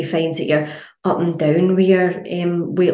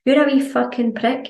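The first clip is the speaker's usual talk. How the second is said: mock insult; 7 semitones higher than usual. Insulting a glass of water.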